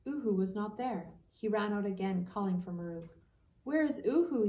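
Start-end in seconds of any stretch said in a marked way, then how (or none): 3.6-4.5 high, louder anxious question; breathless worry. A narrator's reading. Boy searching for his owl, breathless and high. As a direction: ask it urgently, out of breath. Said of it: "he asked breathlessly".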